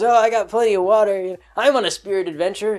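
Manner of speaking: lightly voiced friendly hippie; Cheech Marin. Hippie welcomes his spirit companion, light Cheech Marin impression. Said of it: "I'll just go with the Cheech Marin".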